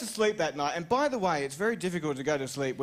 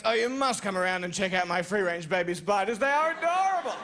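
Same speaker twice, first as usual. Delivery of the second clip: mock gushing; 3 semitones higher than usual. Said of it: "saying to any of my friends".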